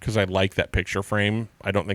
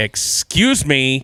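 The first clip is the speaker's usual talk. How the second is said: pointed, pitched-up, passive-aggressive politeness; 5 semitones higher, 4 dB louder than usual. Showing how they say excuse me behind people, pointed, passive-aggressive tone. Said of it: "the way I say excuse me is a little passive aggressive".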